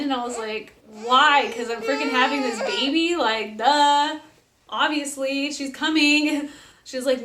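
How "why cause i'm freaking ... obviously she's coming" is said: loud opening, then incredulous and rising; mock-exasperated comeback; sarcastic retold retort. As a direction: answer as if it's painfully obvious. Sarcastic answer to nurse's question.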